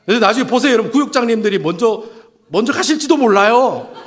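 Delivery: laughing. Real, not acted. Pastor jokes to the congregation, laughing. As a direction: chuckle out the punchline.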